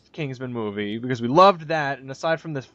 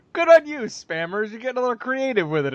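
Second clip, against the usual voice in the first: mock praise; 6 semitones higher than usual. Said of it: "I'm like".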